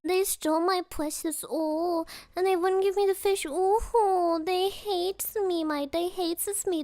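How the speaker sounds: wailing, self-pitying creature; hammed-up lament with long moaned "oh"s; Gollum. Gollum moans to the ring that hobbits hate him, hammed-up wail. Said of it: "I will golem once her precious".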